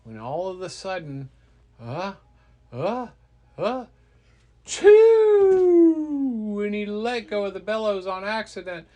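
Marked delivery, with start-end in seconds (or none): 1.8-6.6 building gasps into a high, loud "choo"; hammed-up sneeze, rising to a big choo; mock sneeze. Acts out a sneeze in the story.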